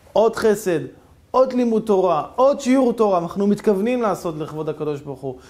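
loud, fervent sermon delivery; preaching. Acted. Preacher urging the congregation to do good deeds, fervently. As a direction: preach the moral with fervour.

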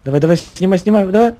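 excited. Real, not acted. Urging during firefight.

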